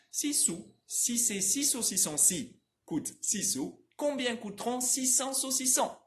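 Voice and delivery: travalenguas em francês dito de um fôlego, com S nítidos; trava-língua rápido. Shown as a demonstration. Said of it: "Não precisa falar tão rápido quanto eu". (trava-língua francês fluente e ágil)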